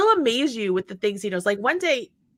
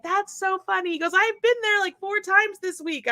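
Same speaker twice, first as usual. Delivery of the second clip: lightly voiced amused teen; higher son voice; 8 semitones higher than usual. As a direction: imitate a carefree teenager.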